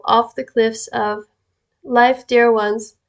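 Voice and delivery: slow, deliberate reading; slowed-down emphasis. Real, not acted. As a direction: draw the words out for weight. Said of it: "and slows down and gets louder sometimes".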